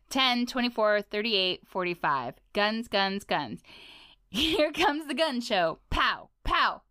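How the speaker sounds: a lightly voiced, boastful icy king; tough Ice King. Ice King bragging about his arms, a light swagger. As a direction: show off his muscles, swaggering.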